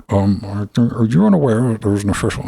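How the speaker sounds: high, snarky questioning voice; mock a smug commenter. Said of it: "imagined YouTube comment".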